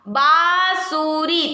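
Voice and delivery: बांसुरी said slowly with a nasal आ; slow demo word. Shown as a demonstration. Teacher to class, modelling बांसुरी slowly. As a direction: draw out बांसुरी. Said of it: "बा के बाद अ का pronounce".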